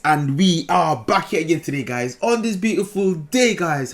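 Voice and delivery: lightly put-on posh British host; British accent. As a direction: play a cheesy British vlogger. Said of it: "Beautiful British English".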